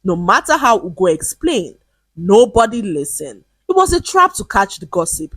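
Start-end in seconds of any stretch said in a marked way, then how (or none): 3.7-5.3 high-pitched protest without much volume; mild narrated shout. A narrator's reading. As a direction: cry it out in self-defence. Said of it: "he would shout".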